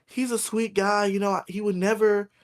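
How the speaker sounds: a customer sticking up for the cashier, high and sweet; lady defending me. Retold or imitated. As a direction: chirp it up high in her defence. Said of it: "And she goes".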